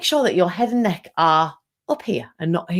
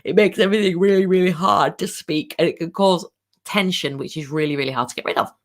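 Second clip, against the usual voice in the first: slightly tight, constricted throat; a hint of strain in the voice; tense voice. Shown as a demonstration. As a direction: speak with the neck pushed forward, larynx a little stuck. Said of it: "a little bit of tension in the voice".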